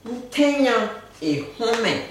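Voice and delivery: "Ntenyan et honmen" said slowly, stressing "Ntenyan"; slow model. Shown as a demonstration. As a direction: linger on "Ntenyan". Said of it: "Je suis furieux". («Ntenyan» appuyé et lent)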